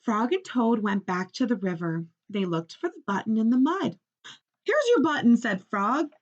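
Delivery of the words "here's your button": higher, louder triumphant call; excited call. A narrator's reading. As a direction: call out loud, sure you found it. Frog eager at river.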